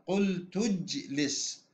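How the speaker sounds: slow, linked "قلت اجلس" as qultu-jlis; silent hamza. Shown as a demonstration. Teacher repeating for students, "قلت اجلس" with hamza dropped. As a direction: glide from "قلت" into "اجلس" without a glottal stop. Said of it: "في النطق لا نلفظ الهمزة".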